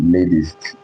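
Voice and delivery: LATEST with a D sound in the middle; American flap T. Shown as a demonstration. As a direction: say LATEST as lay-dist. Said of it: "that's what they call it".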